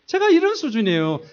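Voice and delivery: usual speaking voice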